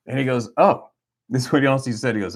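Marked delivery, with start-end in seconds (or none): 0.6-0.9 amazed bank agent. Retold or imitated.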